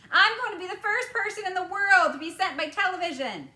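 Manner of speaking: put-on high, loud boasting boy; boastful boy. A narrator's reading. Boy announcing his daring to everyone, loud and high. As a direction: crow about being first, loud. Mike TV voiced.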